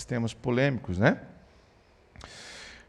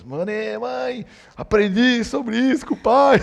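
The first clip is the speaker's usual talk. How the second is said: put-on high, slow childish voice calling mom; excited kid; 9 semitones higher, 5 dB louder, slower than usual. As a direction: play the thrilled little boy. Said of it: "contou pra mãe". (voz aguda e lenta de menino empolgado)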